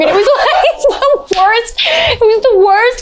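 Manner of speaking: laughing through the words; real laughter breaking in. Real, not acted. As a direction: laugh while you say it. Laughing at the memory.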